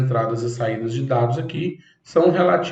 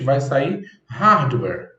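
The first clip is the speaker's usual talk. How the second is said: fast hardware demo; much slower than usual. Shown as a demonstration. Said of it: "eu falando isso aqui rapidamente".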